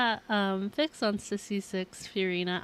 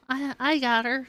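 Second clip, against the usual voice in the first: laughing; 4 semitones higher, 5 dB louder than usual. Real, not acted. Laughing about pulling Furina.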